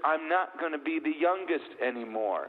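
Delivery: high-pitched imitation of a confused young boy; David. Ten-year-old son to his family on baby news, imitated high confusion. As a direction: voice a puzzled child, pitched well up. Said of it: "My ten-year-old, uh, David".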